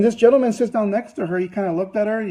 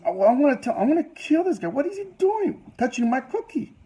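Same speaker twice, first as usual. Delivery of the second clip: mock fury; 4 semitones higher, 5 dB quieter than usual. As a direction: fume inwardly, pitch climbing. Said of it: "she was very furious about this".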